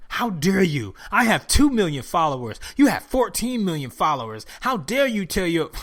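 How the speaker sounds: mock indignation, scolding a celebrity; irate host. TV host scolding a rapper over vaccine, mock irate. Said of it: "was irate about this shit".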